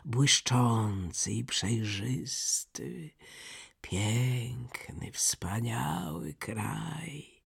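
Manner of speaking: very slow, drawn-out reverie; slow wistful storybook reindeer; dreamy reindeer. Acted. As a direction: linger on each image, savouring the homeland. Reindeer dreamily describes his homeland.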